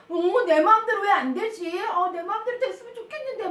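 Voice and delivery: acted childish whine, mildly put out; sulky. Teacher voicing a child who wants their way, mock sulk. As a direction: grumble a little about not getting your way. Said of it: "굉장히 뾰루퉁해지기도 해요".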